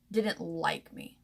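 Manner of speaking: slow, soft words as tears come; holding back tears, slowed right down; starting to cry. Real, not acted. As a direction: voice giving way to real tears. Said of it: "without ruining my makeup".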